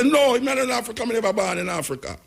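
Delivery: mock protest. Imagined objector answers the speaker on being African, mock protest.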